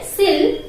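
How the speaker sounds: SILL said as a separate first syllable; teacher isolating SILL, the start of silly; syllable demo. Shown as a demonstration. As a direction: sound out SILL by itself for learners. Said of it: "See how to pronounce this?".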